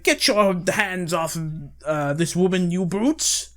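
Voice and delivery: hammed-up gallant rescuer; noble hero. Jonathan confronting the bullies, a hammed-up noble hero.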